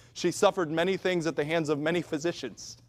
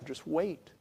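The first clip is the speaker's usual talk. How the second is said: softer, settled reply; calm reassurance; 5 dB quieter than usual. Acted. God answering the question why, calm and patient. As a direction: gently hold off an anxious questioner.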